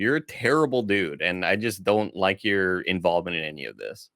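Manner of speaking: laughing through a mock address to camera; half-laughing, scolding Paulie straight down the lens; laughing mock Stallone. Podcaster imagining Stallone telling Paulie off, laughing. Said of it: "for Stallone to look in the camera and be like".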